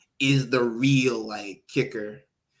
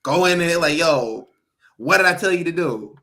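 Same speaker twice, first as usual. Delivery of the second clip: scolding mom; 2 semitones higher, 5 dB louder than usual. Retold or imitated. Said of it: "I was like".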